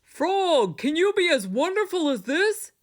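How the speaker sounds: high, loud showing off; boastful cry. A narrator's reading. Toad boasts to Frog from the stage, high and loud. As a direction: crow over Frog. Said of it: "said Toad".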